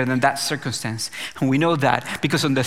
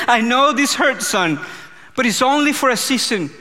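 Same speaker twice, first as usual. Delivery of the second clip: the Father speaking; 7 semitones higher, 3 dB louder than usual. Retold or imitated. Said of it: "the Father was speaking to me".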